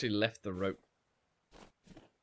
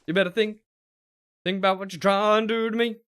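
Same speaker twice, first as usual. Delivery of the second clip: threatening; 9 semitones higher, 7 dB louder than usual. Pretend. Warning the bear.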